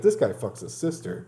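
put-on backwoods Southern accent with a laugh in it; deep Southern accent. Mocking how the world hears Americans, Southern accent. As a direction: joke in a country Southern accent. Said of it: "like that kind of accent".

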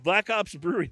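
put-on a faint, half-hearted Australian accent on the brewery name; mock Australian lilt, barely there; bad Australian accent. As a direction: toss off an Aussie accent badly. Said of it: "That's a really bad Australian accent".

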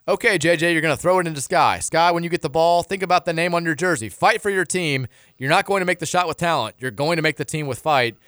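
hammed-up rah-rah huddle speech; mock coach pep talk. Host imagines coach pleading with players in a timeout huddle, mock pep talk. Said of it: "how I imagine timeout huddles going".

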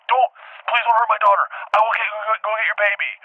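high, frantic begging; acted pleading. Parent begging the elephant to spare a daughter, acted frantic plea. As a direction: stumble over it in urgent appeal.

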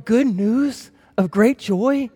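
slow, doubting drawl; sarcastic, drawn out. Retold or imitated. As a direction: say it slowly as if you don't believe it. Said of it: "and you're going".

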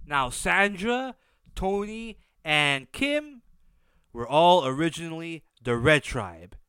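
stuffy nose, nasal sound; talking through a blocked nose. Real, not acted. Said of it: "if I sound weird, my nose is, uh, blocked".

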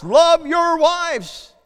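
urgent preached repetition; stronger repeat. Acted. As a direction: drive the command home harder.

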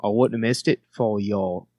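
searching attempt at Australian accent. Shown as a demonstration. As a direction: feel your way into Australian. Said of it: "It takes me a second to get into it".

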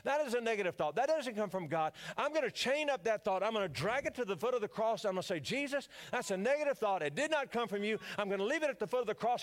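a touch of a commanding self-talk voice; declaring to himself. Retold or imitated. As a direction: command the thought like a preacher. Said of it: "I say".

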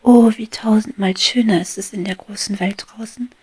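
high, loud giddy declaration; a bee drunk on sunlight, shouting her dreams; exuberant cry. Acted. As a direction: proclaim your freedom with overflowing joy. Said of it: "rief sie".

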